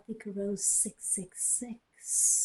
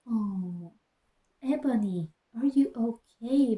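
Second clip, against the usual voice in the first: concerned. Acted. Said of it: "asked in a concerted voice".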